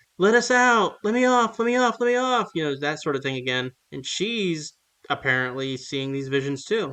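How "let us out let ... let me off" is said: very high, frantic, panicked, acted-out screaming shriek. Summarizing a story's plot, the speaker acts out a woman in the house, imitating a woman screaming. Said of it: "screaming in their like in the house".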